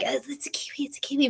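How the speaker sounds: hushed unvoiced whisper. Whispering to family in the forest so the kiwi stays. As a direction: whisper so you don't scare the bird. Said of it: "We were whispering".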